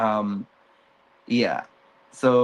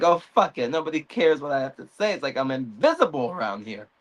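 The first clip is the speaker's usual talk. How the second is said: storming off; 4 semitones higher, faster than usual. Retold or imitated. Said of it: "he storms off like".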